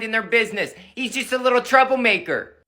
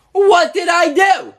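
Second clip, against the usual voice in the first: higher, slower, indignant yell; louder protest; 6 semitones higher, 5 dB louder, slower than usual. Acted. Father protesting his ban to Dixie, higher indignant yell. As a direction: demand it again, outraged.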